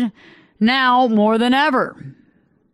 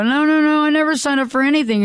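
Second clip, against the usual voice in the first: emphatic retold denial; 6 semitones higher, faster than usual. Retold phone call denying signup.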